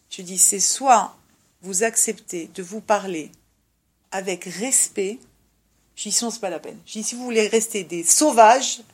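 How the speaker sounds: measured warning. Retold or imitated. Stern ultimatum to the couple. (ultimatum grave et lent)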